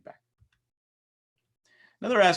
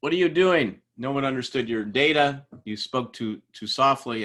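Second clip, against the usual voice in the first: retold yelling; 3 semitones higher, 4 dB louder than usual. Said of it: "started yelling at him".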